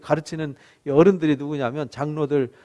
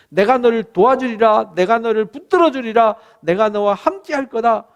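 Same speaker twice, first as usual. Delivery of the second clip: raised, emphatic voice of assurance, lightly acted; God's promise; 5 semitones higher, 4 dB louder than usual. Preacher quotes God promising help, emphatic assurance. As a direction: promise it firmly, line after line. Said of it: "이렇게 말씀하시잖아요".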